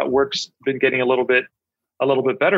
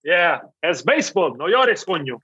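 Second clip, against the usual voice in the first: Cuban accent; 3 semitones higher than usual. Shown as a demonstration. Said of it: "saying it like a Cuban".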